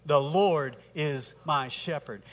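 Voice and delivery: unhurried, leading the congregation; slow recitation with the church. Shown as a demonstration. Pastor leading the congregation in unison, slowly. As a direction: say it together, steady and slow. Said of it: "Say that with me".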